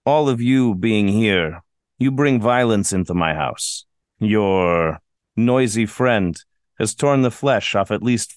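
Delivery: measured, lightly menacing villain speech; a hint of a theatrical villain, slowed; slow theatrical villain menace. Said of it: "You're doing a villain monologue".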